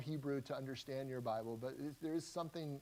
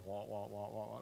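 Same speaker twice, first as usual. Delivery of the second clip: Charlie Brown teacher wah; 5 semitones lower, 6 dB quieter than usual. Retold or imitated. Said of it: "the teacher was talking, it was always".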